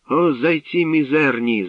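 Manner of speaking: loud, high contemptuous shout, slow; angry outburst. A narrator's reading. Youth curses fleeing warriors, angry gritted shout. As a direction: spit out scorn at the cowards. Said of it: "заскриготів зубами юнак".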